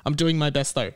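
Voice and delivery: talking around a sore tongue. Real, not acted. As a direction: speak carefully, tongue hurts to move. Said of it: "I'm talking kind of weird because it's actually painful to talk".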